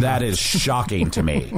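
mock shock; sarcastic. Wizard mocking the host's boring dreams, sarcastic. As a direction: lay the sarcasm on. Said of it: "there's a thing on Foon called sarcasm".

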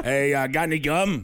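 put-on lightly rasped ghost girl; a hint of a smoky ghost; poltergeist voice. Shown as a demonstration. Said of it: "You try a poltergeist voice".

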